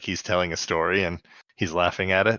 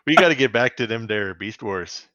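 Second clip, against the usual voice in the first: mock Canadian, hammed up; Canadian accent. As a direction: answer with the thicker Canadian, them there. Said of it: "my Canadian voice guy".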